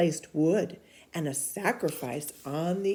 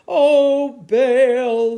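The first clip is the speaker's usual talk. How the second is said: high, much louder cry to Baal; desperate shout; 8 semitones higher, 15 dB louder than usual. Acted. Prophets crying out to their god, loud and high. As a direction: shout up to the sky. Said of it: "they shouted".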